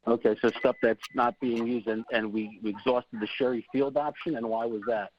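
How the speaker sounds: muffled behind a mask; talking through a face mask. Real, not acted. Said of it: "I'm sorry, I got a mask on".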